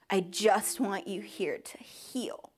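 slow, breathy whisper through tears; soft tearful whisper. Real, not acted. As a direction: hold it gently, almost gone. Quoting pastor while tearful.

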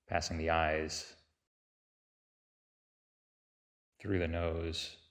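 unhurried meditation guide with long pauses between phrases; guided meditation. Real, not acted. Teacher leading listeners through a body sweep, calm guided-meditation delivery.

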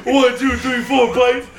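hammed-up escalating panic; mock frantic counting. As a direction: pile them up, pitch rising each time. Acting out repeated snake bites.

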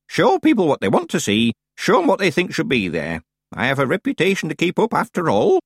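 put-on high, relishing old-woman voice; pleased old witch teaching her trick; old witch, approving. Plays Miss Treason.

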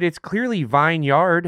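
"vineyard" said as VINE-yard, drawn out; vine-yard, as spelled. Shown as a demonstration. Arguing with friends over pronunciation, insistent spelled-out VINE-yard. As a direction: say "vineyard" as two full words, vine and yard. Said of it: "calling it a vineyard instead of vineyard".

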